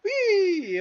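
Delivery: high, loud excited whee; gleeful squeal. Real, not acted. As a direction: squeal with delight. Gleeful squeal while playing.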